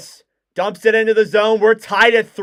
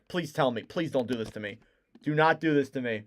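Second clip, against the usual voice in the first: soft pleading; 6 semitones lower, 10 dB quieter, faster than usual. Real, not acted. Fearing goal overturned.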